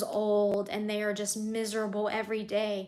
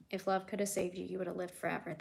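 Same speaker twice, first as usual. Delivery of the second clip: softer, tender repeat of the quote; softly repeated; 6 dB quieter, faster than usual. Real, not acted. Streamer softly repeats a viewer's comment, tender. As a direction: let the words sink in quietly. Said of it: "That's exactly what it is".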